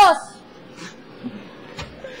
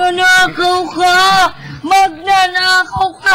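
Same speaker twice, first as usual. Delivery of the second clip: angry accusation; 4 semitones higher, 5 dB louder, slower than usual. Acted. Repeated thief accusation.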